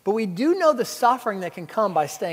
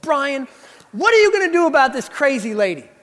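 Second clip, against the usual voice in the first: loud, higher indignant demand to the boss; 5 semitones higher, 4 dB louder than usual. Retold or imitated. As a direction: storm in and demand action, half-mocking yourself. Indignant young teacher to boss.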